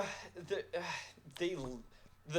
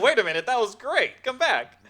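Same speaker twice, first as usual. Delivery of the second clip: high and loud mock calling after; high girly plea; 12 semitones higher, 12 dB louder than usual. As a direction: call him back in a high squeal. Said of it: "she's like".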